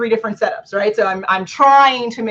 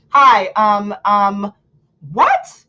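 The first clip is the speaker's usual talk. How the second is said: mock baffled what; 4 dB louder, much slower than usual. Mock speaker then baffled.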